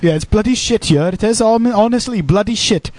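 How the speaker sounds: lilting Welsh grumble; mock Welsh accent. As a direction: play up the Welsh lilt. Joking along in Welsh voice.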